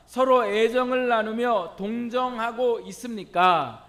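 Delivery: loud, measured recitation of scripture; projected, formal Bible reading. Real, not acted. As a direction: read each question out firmly to the whole congregation. Reads scripture aloud to congregation.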